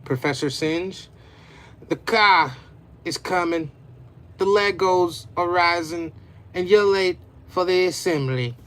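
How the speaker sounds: urgent warning. Acted.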